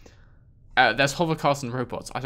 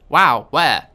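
loud contrast; 9 dB louder than usual. Shown as a demonstration. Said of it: "Different words".

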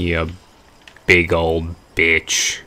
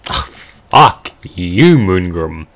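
angry; 6 dB louder, slower than usual. Real, not acted. Cursing at boss.

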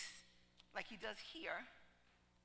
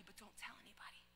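hushed, softer, no voice; whisper; 2 semitones lower, 16 dB quieter than usual. Retold or imitated. Girl confides to the visiting pastor, whispered. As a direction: whisper it, a secret just for you. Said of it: "I'll say it to you quietly".

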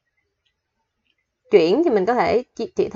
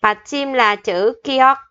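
slow explaining; 2 semitones higher, slower than usual. Shown as a demonstration. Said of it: "có một số quy tắc, phát âm cơ bản".

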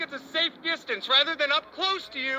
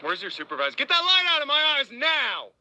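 firm, raised voice; angry demand. Real, not acted. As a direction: snap at him to get the light away. Light shone in his eyes.

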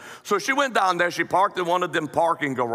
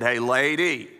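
parrot voice; 4 semitones lower than usual. Acted. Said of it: "He said".

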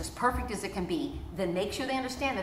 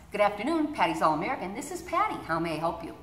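friendly receptionist answering the phone; phone greeting demo. Shown as a demonstration. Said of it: "we answer the phone like this".

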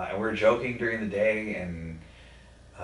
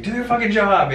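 loud, high-pitched angry order; retold angry yelling; 13 semitones higher, 10 dB louder than usual. Grandson yelling at hospital staff to work, retold. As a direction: re-enact bellowing at staff who must act. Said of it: "I was yelling at people".

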